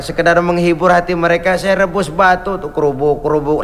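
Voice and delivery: a hint of a tired mother explaining; lightly voiced poor mother.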